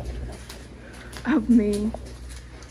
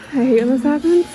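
frustrated; 7 dB louder than usual. Real, not acted. Frustrated outburst.

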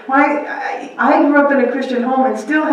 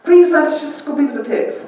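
begging demons; 7 semitones higher, 3 dB louder than usual. Retold or imitated. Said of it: "They begged him".

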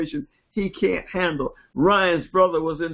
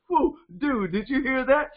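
excited dude talk; 5 semitones higher than usual. Retold or imitated. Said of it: "that's the way he talks to his brother".

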